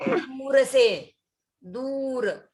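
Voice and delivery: दूर with a long drawn-out ऊ, very slow; long vowel dur. Shown as a demonstration. Teacher demonstrates long vowel in दूर, slow. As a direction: stretch the ऊ in दूर. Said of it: "ऊ की मात्रा बड़ी है".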